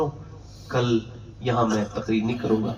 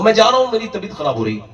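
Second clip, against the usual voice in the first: panicked excuse; 9 semitones higher, 5 dB louder, faster than usual. Retold or imitated. Frightened man trying to leave.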